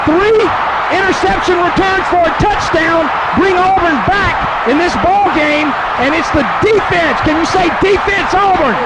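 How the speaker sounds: high, disbelieving exclamations; amazed. Real, not acted. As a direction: marvel at what just happened. Color man amazed after score.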